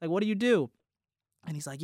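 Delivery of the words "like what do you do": higher, eager surprise; a retold "Oh, really?" jumping up in pitch; surprised. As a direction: pleasantly caught off guard. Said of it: "I'm like".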